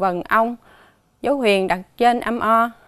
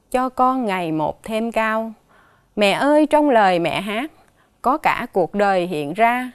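poem recital. Acted. Teacher reading a poem about mother to the class, measured recital. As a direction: read it like a lullaby poem, gently paced.

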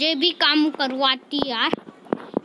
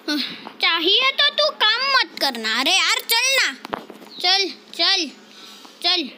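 imploring, pitched up; coaxing; 3 semitones higher than usual. Pretend. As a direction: coax a crying child to come along. Coaxing crying girl along.

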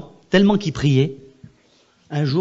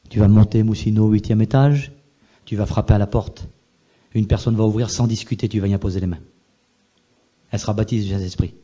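voice of the Holy Spirit; 4 semitones lower than usual. Retold or imitated. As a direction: speak as God giving an order, deliberately. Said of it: "le Saint-Esprit parle".

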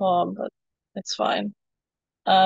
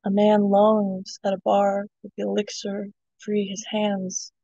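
poem reading. Acted. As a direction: read it like a spoken word poem. Reads her poem aloud.

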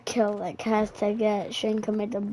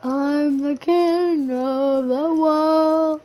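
dark lord; 4 semitones higher, 5 dB louder, much slower than usual. Pretend. Gloats after a win.

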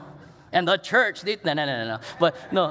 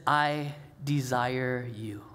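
slow, softer and lower as Jesus; Jesus tender; 5 semitones lower, 3 dB quieter, much slower than usual. Retold or imitated. Jesus telling his friends he desires them, slow and tender. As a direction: say it slowly, like a confession of love. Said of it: "It's when Jesus says".

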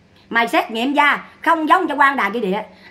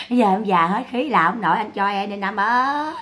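sinking imitation of a wailing plea; mock weary pleading; 2 semitones lower than usual. Imitating Sáu out of strength at the grave, mock plea. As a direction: trail the last call out in mock lament. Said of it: "Sáu này chạy Sáu khóc quá khóc luôn".

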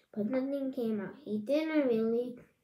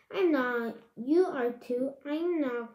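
whining; 3 semitones higher, 5 dB louder than usual. Acted. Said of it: "Chloe whined".

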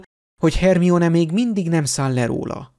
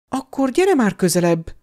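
higher, urging him on impatiently; 4 semitones higher than usual. Acted. Hermione urging Harry to come closer, impatient. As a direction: hurry him up, eager and impatient. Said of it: "türelmetlenkedett a lány".

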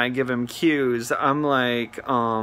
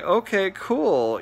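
slow, innocent "okay, cool"; mock clueless customer; playing dumb; 6 semitones higher, slower than usual. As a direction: act totally naive, drawing it out. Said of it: "not gonna let him know that I'm on to him".

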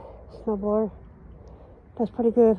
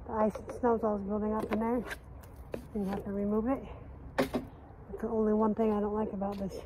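breathless, catching his breath; winded, talking between breaths; 8 dB quieter than usual. Real, not acted. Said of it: "trying to catch my breath".

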